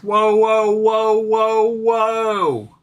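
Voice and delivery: high, loud run of drawn-out whoas; teeny Southern lady. Retold or imitated. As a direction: imitate a little lady calling a halt. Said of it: "this little teeny lady goes".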